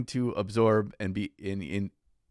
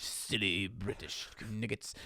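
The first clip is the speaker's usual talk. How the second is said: lightly put-on French accent, slow; a hint of a silly French voice mocking him; 9 dB quieter, slower than usual. Joking about a French guy, a hint of mock French. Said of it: "saying things in his silly French".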